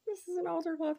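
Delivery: high, fast, laughing through the words; laughing delight. Real, not acted. Finding an altar cloth, laughing with delight. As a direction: giggle it out in thrilled disbelief.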